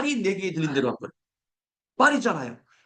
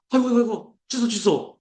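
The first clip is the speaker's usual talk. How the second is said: mock panic; 5 semitones higher than usual. Preacher acts hasty take-back.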